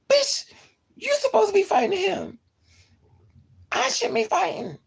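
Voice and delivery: high, loud exasperated rant; high indignant outburst. Real, not acted. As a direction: vent your outrage shrilly. Outraged at friend.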